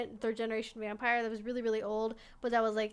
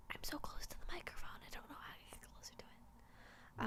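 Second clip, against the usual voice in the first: soft unvoiced whisper; 4 semitones higher, 15 dB quieter than usual. Real, not acted. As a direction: whisper it close to the mic. Worried mic is too quiet.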